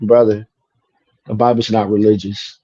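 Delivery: quiet, calm retold words. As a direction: settle the voice low and gentle. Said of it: "so calmly and says".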